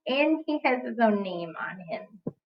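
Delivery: soft whispered aside; hushed playful aside. Acted. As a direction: whisper it as a little secret. Aside to the children.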